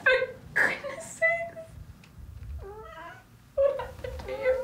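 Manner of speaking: high, slow, falsely casual caller; mock breezy phone call. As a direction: play the carefree girl on the phone. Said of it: "I'd say".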